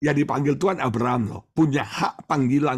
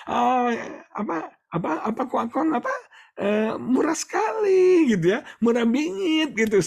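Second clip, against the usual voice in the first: very high, laughing gush; gushing bargain hunter; 12 semitones higher than usual. Retold or imitated. Preacher mimicking someone gushing over cheap deals, very high. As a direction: squeal over how cheap it is.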